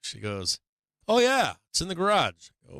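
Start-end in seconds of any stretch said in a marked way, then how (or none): 1.1-2.5 voicing the wife. Voicing wife's breezy answer.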